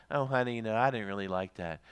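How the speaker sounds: low, soft, restrained complaint; mildly annoyed. Acted. Husband or wife a little bit mad, softly annoyed. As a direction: understate the annoyance, quiet and low. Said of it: "just a little bit mad".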